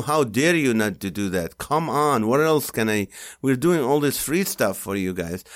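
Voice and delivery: theatrical outrage at fans; mock indignation. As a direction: scold the crowd playfully. Hammed-up scolding audience.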